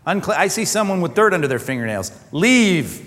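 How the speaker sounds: stern God ordering out a sinner; hammed-up curt eviction; mock divine banishment. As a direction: dismiss them firmly, in pretend disgust. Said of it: "God's gonna say".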